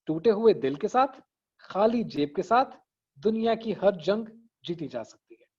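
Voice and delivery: "टूटे हुए दिल के साथ" and "खाली जेब के साथ" as matched beats, then the long line; recited slogan building to a longer closing line; short phrases, long finish. Shown as a demonstration. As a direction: balance two phrases, then run out "दुनिया की हर जंग जीती जा सकती है". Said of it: "ये लंबा हुआ".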